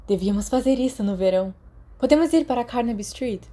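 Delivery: quick, eager plans, rising up; lightly voiced eager Sirius; excited. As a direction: rattle it off with growing excitement. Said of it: "Sirius disse animado".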